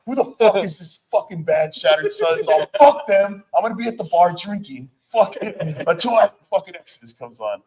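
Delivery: high, loud mock indignation; imitated dismissive fans. Fans waiting for the headlining band dismiss the opener, mock outrage.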